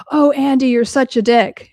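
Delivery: teasing guests. Retold or imitated. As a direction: tease him like amused partygoers.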